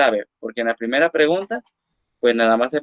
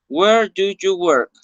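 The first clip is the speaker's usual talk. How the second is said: slow model reading; 5 semitones higher, 3 dB louder, slower than usual. Shown as a demonstration. Teacher models the example question.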